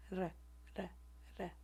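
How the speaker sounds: quick tapped r flaps; tongue flap sound. Shown as a demonstration. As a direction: flick the tongue on the ridge, r r r. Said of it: "the tongue flaps along the alveolar ridge".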